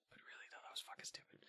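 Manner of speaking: hushed, voiceless whisper; whispered aside. Real, not acted. Aside after calling it just a theory.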